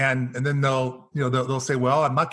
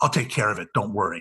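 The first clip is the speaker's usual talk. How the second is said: play-acted, low, nastiest voice possible; 4 semitones lower than usual. Speaker retells what they said to a man, acting out their nastiest voice. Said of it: "in the nastiest voice possible".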